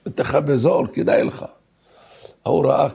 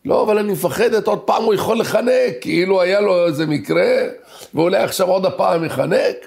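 fearful screaming; 5 semitones higher than usual. Retold or imitated. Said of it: "ככה צורחת".

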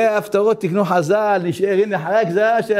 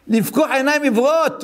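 raised, high proclamation; prophet crying out; 5 semitones higher than usual. Retold or imitated. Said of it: "ככה אני צועק בעצמו". (הכרזה נביאית בקול מורם)

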